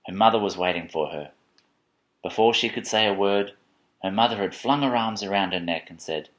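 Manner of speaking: subdued storytelling. A narrator's reading. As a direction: ease towards the tender ending. Reads picture book to child.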